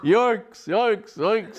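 high, loud huntsman's yell; bay like a huntsman in full cry; loud, high yoicks; hunting cry. Acted. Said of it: "uncouth sounds would proceed".

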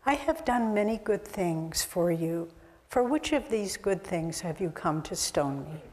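quiet, calm retold reply. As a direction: answer an angry mob unruffled and soft. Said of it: "And Christ says very calmly".

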